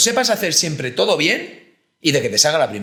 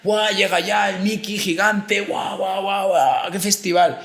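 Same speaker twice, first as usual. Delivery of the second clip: put-on child's delight; 5 semitones higher, slower than usual. Child at birthday party.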